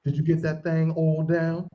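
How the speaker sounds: low, slow drawn-out imitation; imitating Nasty Nate. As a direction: drop low and draw out the question softly. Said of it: "this is what he sound like".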